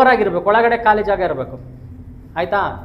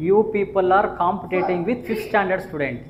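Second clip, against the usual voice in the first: slow disgusted scold; 4 dB quieter, much slower than usual. Real, not acted. Scolding class, drawn out.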